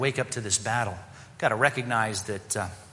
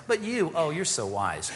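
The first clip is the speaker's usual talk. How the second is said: mock praise, drawn out on oh; sarcastic; 3 semitones higher than usual. Preacher reading Paul's sarcasm to the church, mocking tone. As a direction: sneer that they are wise. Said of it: "Here's the, here's the sarcasm".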